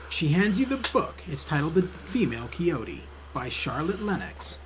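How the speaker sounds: measured storytelling read; game narration. A narrator's reading. Narrator describes librarian fetching a book, story narration. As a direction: narrate the scene step by step.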